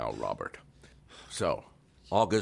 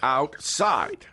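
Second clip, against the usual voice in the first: stern command; 9 semitones higher, 6 dB louder, slower than usual. Acted. Repeating the order, firmer.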